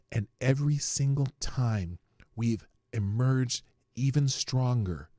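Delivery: slow, lightly voiced Trudeau speech; mock Trudeau with drawn-out pauses; Trudeau impression. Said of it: "How was my Trudeau impression?".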